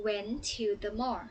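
went to the mall, stretched out very slowly; slow, careful teacher model; slow model phrase. Shown as a demonstration. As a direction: spell it out slowly so the kids can copy. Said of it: "คำว่า went to the mall".

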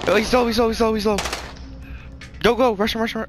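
excited callout. Real, not acted. Combat callout.

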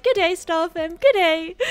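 playing up the Aussie twang on "Good day"; Aussie greeting. Shown as a demonstration. Vlogger hamming up an Australian greeting to fans, broad Aussie accent. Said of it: "I was just like".

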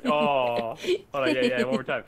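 excited shouting. Real, not acted. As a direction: cheer it out loud. Dance party in game.

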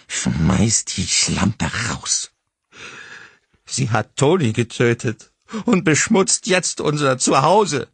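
slow, then high and loud shrieking; furious demand. A narrator's reading. Mother demands husband throw out visitor, screaming. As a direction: order him with venom.

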